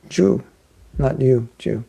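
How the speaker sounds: "Jew," "not you," "Jew." contrasting a J start with a Y start. Shown as a demonstration. Teacher contrasting Spanish "Jew" with English "you". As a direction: stress the J in "Jew" against plain "you". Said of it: "that's how you say it in Spanish".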